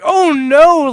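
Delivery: high, loud panicked shriek; panicking droid. Retold or imitated. Droid panicking right before it dies, shrieking. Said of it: "really panicking and dies immediately".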